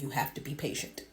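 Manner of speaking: hushed. Acted. Husband gently refuses.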